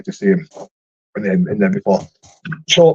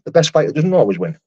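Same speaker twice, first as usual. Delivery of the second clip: higher-pitched, emphatic endorsement; agreeing; 5 semitones higher than usual. Real, not acted. Streamer granting a viewer's good point, agreeing. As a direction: repeat it as a point well made, pitched up.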